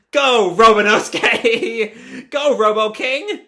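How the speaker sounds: high, loud, drawn-out hero call; shouted command. Acted. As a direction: summon a giant robot by name. Kids shout names at the robot.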